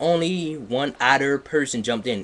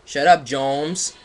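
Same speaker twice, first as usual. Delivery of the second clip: shouted; 4 semitones higher, 6 dB louder, slower than usual. Acted. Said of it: "Draco's dad shouted".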